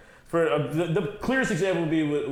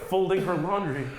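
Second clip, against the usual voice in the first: Dave Chappelle's white dude; 5 semitones higher than usual. Retold or imitated. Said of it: "anytime he did a white dude".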